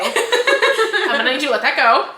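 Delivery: giggling through a mock soothing line; laughing while speaking. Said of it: "mock calming voice".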